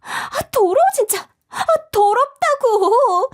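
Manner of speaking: high, drawn-out disgusted wail; spoiled girl wailing that it is filthy; disgusted whine. Acted. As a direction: whine in revulsion. Disgusted at smeared food.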